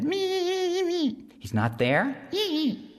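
very high, buzzing insect voice; high whiny mosquito, eager to help; tiny mosquito voice. Acted. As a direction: squeak it like a little mosquito.

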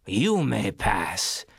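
troll voice. Acted. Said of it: "said the troll".

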